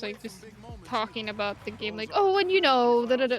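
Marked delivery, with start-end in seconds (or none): 2.1-3.4 announcer voice. Retold or imitated. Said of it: "like, the announcers".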